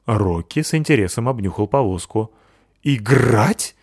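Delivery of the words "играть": surprised dog. Acted. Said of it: "спросил он удивлённо".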